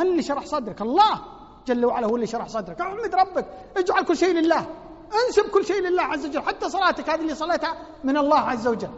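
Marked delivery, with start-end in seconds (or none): 2.8-8.9 higher, louder fervent preaching. Real, not acted. Preacher praising the God-fearing to the congregation, louder. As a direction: preach it out with conviction.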